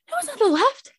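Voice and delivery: high mocking repeat of his words; incredulous echo. To the date who got it wrong, high disbelief.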